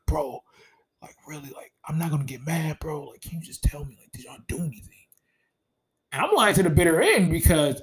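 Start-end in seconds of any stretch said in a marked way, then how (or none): 0.1-5.1 soft, half-voiced retold plea; imitating sad husband. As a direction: lightly act a hurt man begging for the truth. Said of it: "He was, like, sad, like, crying to me".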